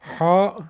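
"ها" with the throaty Arabic h of ح; Arabic letter name. Shown as a demonstration. Teacher lists special Arabic letters, "ها" with pharyngeal h. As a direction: squeeze the h of "ها" from the throat.

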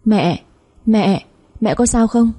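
understated scream, stretching out the calls; mild alarmed cry. A narrator's reading. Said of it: "Con Lan hét lên". (kêu lên nhẹ, kéo dài, hốt hoảng)

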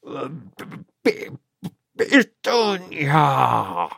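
choked stutter, then a slow drawn-out name; stammering shock. A narrator's reading. Uncle stammers his wife's name after reading the letter, choked. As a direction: sputter the name in horror, slowly. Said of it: "وصرخ".

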